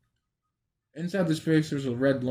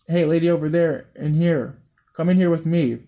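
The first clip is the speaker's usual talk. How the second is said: calling out; 4 semitones higher, 5 dB louder than usual. Acted. Kid calling from hiding.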